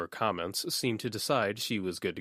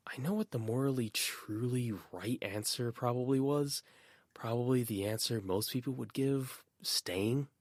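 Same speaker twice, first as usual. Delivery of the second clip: hushed private thinking; whispered inner thought; 5 semitones higher than usual. Acted. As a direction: whisper it to yourself. Inner thoughts voiced apart.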